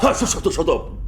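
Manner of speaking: high, stuttered angry shushing; irritated interruption. Acted. Man cutting off the woman's question, irritably silencing her.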